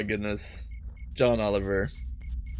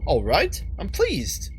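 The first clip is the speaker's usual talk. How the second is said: put-on first try at a British accent; lightly put-on British character voice; 5 semitones higher, slower than usual. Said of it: "not doing the right British accent".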